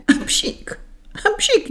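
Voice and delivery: two mock sneezes, the second high-pitched; storybook "achoo", twice; acted sneezes. A narrator's reading. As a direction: sneeze theatrically as a character with a cold. Hoarse gentleman sneezes in the story.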